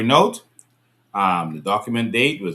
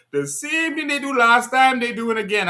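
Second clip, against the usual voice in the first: quoting the voice note; 10 semitones higher, 3 dB louder than usual. Retold or imitated. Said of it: "That's what he said in the, in the voice note".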